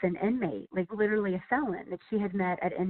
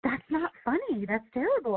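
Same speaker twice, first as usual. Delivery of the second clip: disapproving editor, mock; 5 semitones higher than usual. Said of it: "she's like".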